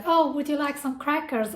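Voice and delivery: a hint of a doting mother; imitating mom. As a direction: mimic mom offering a snack. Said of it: "is like".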